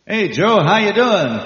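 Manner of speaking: friendly greeting. Retold or imitated. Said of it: "a brother and say".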